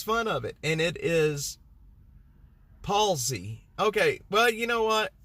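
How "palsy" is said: "palsy" in two syllables, PAWL-zee; careful two-beat "palsy"; corrected palsy. Real, not acted. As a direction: say "palsy" with no vowel after the L. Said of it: "I thought it was policy".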